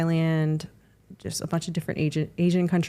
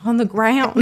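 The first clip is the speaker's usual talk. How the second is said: laughing; 8 semitones higher, 10 dB louder than usual. Real, not acted. Joking answer, bursting out laughing.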